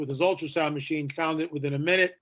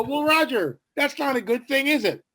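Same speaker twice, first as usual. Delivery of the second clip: teasing; 9 semitones higher than usual. Retold or imitated. Teasing banter retold with Roger.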